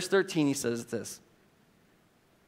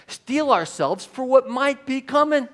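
slow, much louder and higher, bearing down; urgent preaching; 9 semitones higher, 7 dB louder than usual. Real, not acted. Preacher to the church, urging them, slow and loud. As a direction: hammer each word home to steel them.

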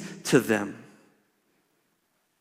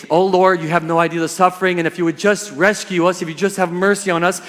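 mock plea. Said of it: "if we say".

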